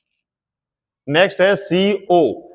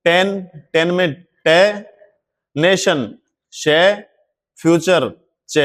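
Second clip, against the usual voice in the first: slow letter demo. Shown as a demonstration. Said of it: "तो देखो".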